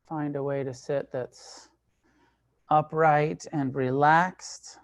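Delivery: calm, measured meditation guidance, long pauses between phrases; guided meditation. Real, not acted. Teacher leading a group into sitting meditation, calm and unhurried. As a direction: guide them into stillness, leaving space after each phrase.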